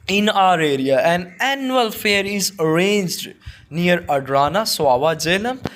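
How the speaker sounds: slow, deliberate dictation pace; slow classroom read-aloud. Shown as a demonstration. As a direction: read it out word by word. Teacher dictates model answer.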